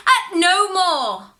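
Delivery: high, loud, slow cry; anguished plea. Acted. Man begging Nina to stop bouncing, loud slow cry. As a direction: beg it to stop.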